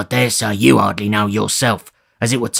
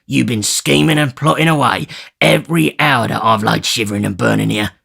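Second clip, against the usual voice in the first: louder, sneering resentment; bitter grin; 3 semitones higher, 4 dB louder than usual. Acted. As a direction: bitterly list his grievances. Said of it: "replied Sikes with a bitter grin".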